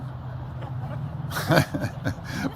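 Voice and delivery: soft laugh under the breath; quiet breathy chuckle. Real, not acted. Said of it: "oh, buddy, you make me laugh".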